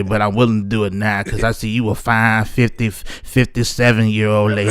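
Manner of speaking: lightly voiced older man smooth-talking a lady; Mac voice. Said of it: "that's your Mac voice".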